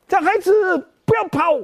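put-on high, sharp call after the boy. Old woman calling the boy back to return money, high sharp call. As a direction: stop him from running off. 她就马上喊啊.

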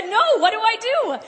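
high, nervous half-laugh of retold panic; a flustered chuckle at her own fear; panicked laugh. Evangelist recalls freezing at a no, laughing nervously. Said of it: "And I began to panic".

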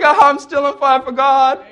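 a hint of a beaming girl who won't be hushed; chirpy homeschool girl. The girl refusing to calm down, light insistent voice. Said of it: "And they're like".

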